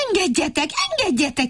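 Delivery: high, insistent crying out; pleading cry. Acted. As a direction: cry to be let through. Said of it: "kiáltozta". (magas, követelőző kiáltozás)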